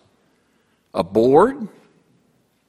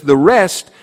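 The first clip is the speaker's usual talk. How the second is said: slow, emphatic scripture line; slow reading; 3 semitones higher, 3 dB louder, much slower than usual. Shown as a demonstration. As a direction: drag out some on boards. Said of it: "And then it says".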